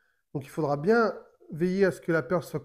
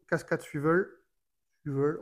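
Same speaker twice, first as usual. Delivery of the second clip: French speaker's attempt at English; English accent on "swivel". Real, not acted. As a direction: try the product name in an English accent. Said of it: "mon accent anglais".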